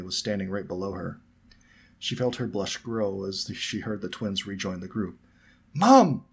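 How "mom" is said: high, loud call for mum. A narrator's reading. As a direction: call out to get your mother's attention. Twin calls out to his mother.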